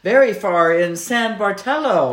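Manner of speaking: put-on light Nigerian accent, amused. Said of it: "in a Nigerian accent".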